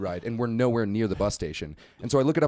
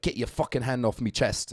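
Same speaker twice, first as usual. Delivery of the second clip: put-on British accent of an angry kid. Storyteller quoting the British kid in the bar, British accent. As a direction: lightly imitate a ticked-off Brit's accent. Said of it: "still doing the accent".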